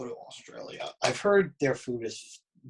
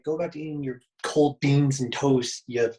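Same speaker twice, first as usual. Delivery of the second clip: mock British accent; 4 dB louder than usual. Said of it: "That was Australian, bro".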